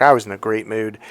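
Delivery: ordinary delivery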